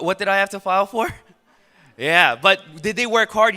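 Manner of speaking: usual speaking voice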